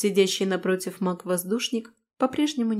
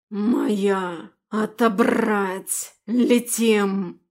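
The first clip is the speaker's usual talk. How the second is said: dragon roar; 4 dB louder, much slower than usual. Acted. Dragon breaking free.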